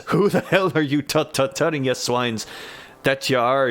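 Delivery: angry Scottish brogue drifting toward Irish; Scottish accent. Acted. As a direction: bark it like a rough Glasgow drunk. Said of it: "my accent's slipping into Irish when it's supposed to be Scottish".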